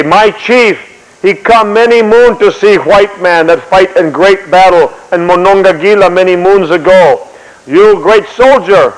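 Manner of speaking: slow, deliberate acted interpreter; Indian interpreter. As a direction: draw the words out as a formal messenger. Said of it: "Indian, uh, comes up and say".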